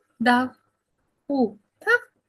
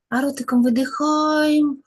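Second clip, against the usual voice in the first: breathing out; 4 dB louder than usual. Shown as a demonstration. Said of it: "Носиком робимо вдих".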